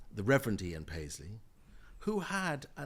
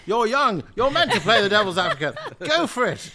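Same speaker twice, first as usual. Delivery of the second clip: laughing; 10 semitones higher, 18 dB louder than usual. Real, not acted. Laughing encouragement to young guest.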